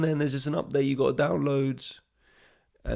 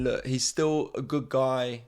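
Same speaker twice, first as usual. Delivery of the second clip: mock reassuring friend; 5 dB louder, slower than usual. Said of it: "your friend is coming out and saying".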